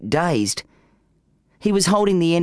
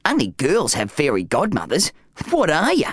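gruff voice. Acted. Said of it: "said a gruff voice".

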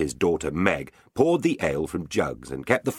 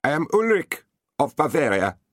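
gentle knight; 9 semitones higher, 3 dB louder than usual. Acted. Knight introduces himself.

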